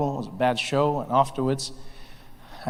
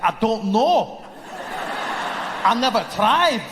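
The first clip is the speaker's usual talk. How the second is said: slow, higher put-on Scottish voice; mock Scottish man; 5 semitones higher, slower than usual. A Scottish man answers the racism question, slow mock Scottish voice. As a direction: play a puzzled Scotsman. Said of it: "He'd be like".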